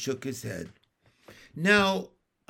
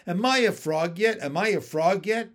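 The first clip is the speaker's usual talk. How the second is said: tadpoles asking; 4 semitones higher, 5 dB louder than usual. Retold or imitated. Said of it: "tadpoles ask it all the time".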